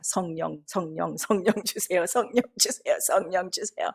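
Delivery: 같은 간구를 되풀이하는 기도 흉내. Retold or imitated. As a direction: plead in short, repeated prayer phrases. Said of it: "그거만 놓고 기도한 거예요". (되뇌는 기도 말투)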